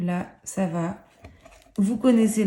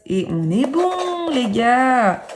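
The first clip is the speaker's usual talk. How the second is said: higher, slow, triumphant; 4 semitones higher, 7 dB louder, much slower than usual. Real, not acted. Host telling viewers the threads are ready, slow triumphant call. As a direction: announce the win to the guys.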